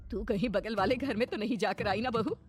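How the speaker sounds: lightly voiced anxious older relative; worried mother-in-law. Mamta asking bahu about the neighbours' house, worried. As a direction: question with dawning alarm.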